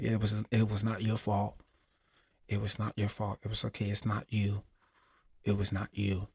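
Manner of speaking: softly voiced comforting father; quiet, soothing retold words; gentle reassurance. Father comforting his grieving son.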